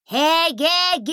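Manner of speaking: громкий высокий оклик; звонко крикнуть издалека; крик через ров. A narrator's reading. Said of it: "крикнул он через ров". (громкий крик через ров)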